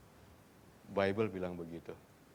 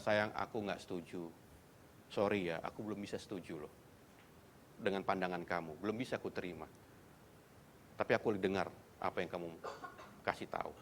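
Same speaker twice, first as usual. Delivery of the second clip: gentle disagreement; 4 semitones lower, 5 dB quieter than usual. Shown as a demonstration.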